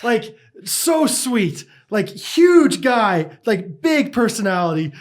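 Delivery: can't stop giggling telling it; giggly retelling, slowed down; laughing while talking. Real, not acted. Laughing while describing Knox.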